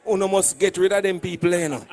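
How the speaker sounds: retold whisper. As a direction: drop low and soft as if passing on a secret. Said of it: "whisper in my ears and say".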